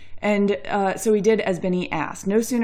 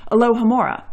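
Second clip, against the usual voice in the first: loud spell incantation; 4 semitones higher, 7 dB louder than usual. Acted. Witch casts spell in story.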